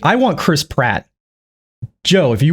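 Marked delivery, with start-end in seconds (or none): 0.0-1.1 slow mocking echo of his friend; mocking imitation. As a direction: drag the words out mockingly. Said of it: "he's like".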